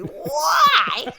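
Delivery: very high, loud, stretched whine; hammed-up teenage wail; whiny teenage voice. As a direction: screech it like a sulky teen. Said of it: "in the whiniest teenage voice ever".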